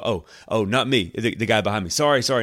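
embarrassed apology. Acted. Preacher acts out waving back at the wrong person, embarrassed. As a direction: backpedal from an awkward mistake. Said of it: "it's a little embarrassing".

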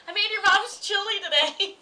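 retold gleeful reveal; proud announcement. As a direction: announce it high and loud, setting up a prank. Teasing announcement to partner, retold.

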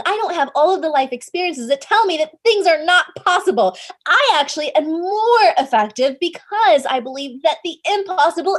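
loud, high, furious shouting back; infuriated yell. Retold or imitated. Shouting back at the mentor mocking her age, furious yell. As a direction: let it all out, defiant and furious. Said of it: "just yelled at him, infuriated, just angry".

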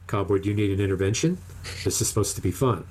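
easy, gentle concern; gently. Retold or imitated. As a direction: retell a gentle check-in with a friend. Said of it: "I said to him gently".

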